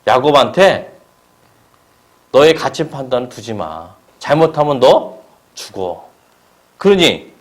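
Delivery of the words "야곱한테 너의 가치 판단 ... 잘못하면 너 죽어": God's stern voice. Acted. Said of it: "하나님이 그런 목소리로 말하는 거예요".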